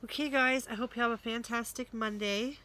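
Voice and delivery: cheerful sign-off. Real, not acted. Bright sign-off to viewers.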